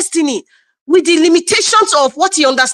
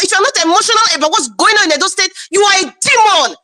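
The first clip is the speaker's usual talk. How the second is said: angry outburst; 3 semitones higher than usual. Real, not acted. Angry rant at critics.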